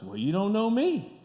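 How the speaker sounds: playful teasing repeat with a laugh; laughing echo. Retold or imitated. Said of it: "I was like".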